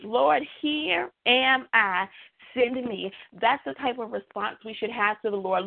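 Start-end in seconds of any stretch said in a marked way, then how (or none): 0.0-3.1 earnest reply. Acted. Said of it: "Isaiah responded rapidly and in faith".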